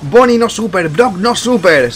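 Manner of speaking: high, slow English caster voice; English caster impression. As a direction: parrot a stating-the-obvious English caster. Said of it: "la caster esta inglesa".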